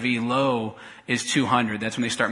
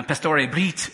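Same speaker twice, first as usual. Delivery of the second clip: Spanish-style name; 3 semitones higher, slower than usual. Retold or imitated. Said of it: "they call me".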